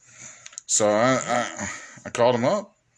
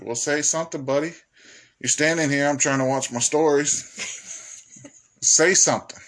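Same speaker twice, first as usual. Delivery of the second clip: impatient dog; 4 semitones higher than usual. Retold or imitated. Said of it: "He was like".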